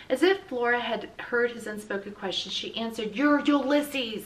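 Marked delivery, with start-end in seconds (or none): 3.1-4.2 slow firm. A narrator's reading. Flora answers firmly.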